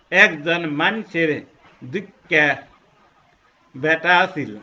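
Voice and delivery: Rangpur dialect. Shown as a demonstration. Teacher showing how Rangpur people say it. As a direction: drawl it out as a Rangpur local. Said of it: "আমি যখন রংপুরে উচ্চারণ করতে যাব".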